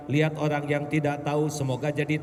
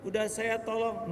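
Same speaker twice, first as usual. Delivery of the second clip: normal talking voice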